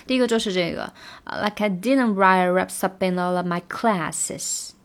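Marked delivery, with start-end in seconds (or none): 1.4-4.7 slow linked drill line. Shown as a demonstration. Teacher drills the linked line slowly. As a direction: go slowly, swallow the f. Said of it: "F一定要吞掉".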